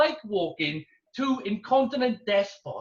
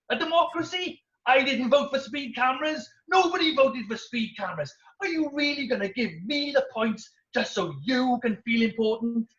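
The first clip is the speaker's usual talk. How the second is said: higher, outraged pitch on a democracy; indignant rant; 4 semitones higher than usual. Retold or imitated. Stuart challenging the course instructor, indignant. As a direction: push the outrage up. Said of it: "He was angry".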